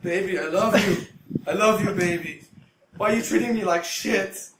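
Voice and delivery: loud, high pleading wail; mock a desperate boyfriend, pitch climbing; imitated lovesick voicemail. Drunk houseguest leaving his girlfriend voicemails, loud high pleading. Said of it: "always leaving voicemails for his girlfriend".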